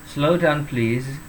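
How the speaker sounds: "please" ending in a voiced Z sound; "please" with final Z. Shown as a demonstration. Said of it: "S-nya ini seperti Z ya". ("please" dengan S dibaca seperti Z)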